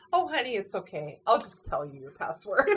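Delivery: lightly imitated Southern Utah accent; folksy Southern Utah accent, pitch dropping at the end. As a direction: reassure like a Southern Utah phone clerk, accent and all. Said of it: "got this thick Southern Utah accent".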